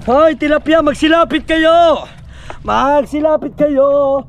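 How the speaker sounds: drawn-out crooning call to the fish; slow coaxing call. Acted. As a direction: coax them in slowly, singsong. Coaxing fish to come near.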